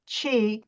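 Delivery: Qi said as "chee"; Chinese term pronounced. Shown as a demonstration. Teacher giving the Chinese word for energy, Qi pronounced "chee". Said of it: "the spelling of Q I is Chinese".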